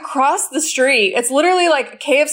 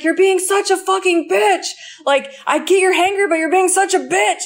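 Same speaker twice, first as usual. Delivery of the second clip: higher-pitched imitation of a boyfriend freaking out; mildly heated retold rant, pitched up; retold angry outburst; 5 semitones higher than usual. Retelling his freak-out in the car, mock-angry. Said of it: "he started fucking getting so crazy at me".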